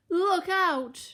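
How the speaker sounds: high, loud piglet shout; shouted warning. A narrator's reading. Two pigs warn Percy, high alarmed shout. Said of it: "they shouted".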